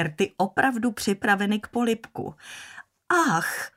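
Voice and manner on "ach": repeated exclamation. Acted. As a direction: let it out again, more vexed than shocked. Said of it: "vykřikla ještě jednou".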